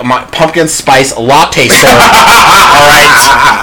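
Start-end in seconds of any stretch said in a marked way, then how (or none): 0.1-1.9 white voice. Pretend. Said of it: "He wants us to do the white voice".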